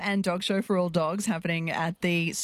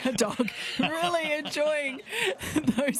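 laughing; 7 semitones higher, slower than usual. Real, not acted. Laughing at dog eating treat.

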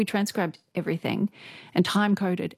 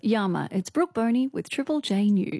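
radio news greeting. Shown as a demonstration. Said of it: "Tell me about that".

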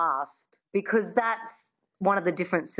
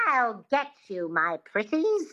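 Wicked Witch voice; 2 semitones higher than usual. Shown as a demonstration. Coach models the line for the host to copy. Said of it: "Just say that".

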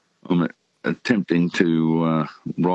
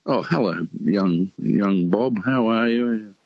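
pleasant greeting; 3 semitones higher, slower than usual. Retold or imitated. Old boxing official greeting young Bob at ringside, pleasantly. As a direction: greet a young acquaintance slowly, in a lightly put-on voice. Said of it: "He was a very pleasant fellow to talk to".

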